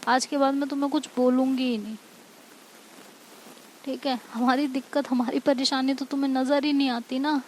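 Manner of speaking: acted motherly scolding; mild angry yell. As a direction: call after her in reproach, only half shouting. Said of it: "पीछे से चिल्लाती है".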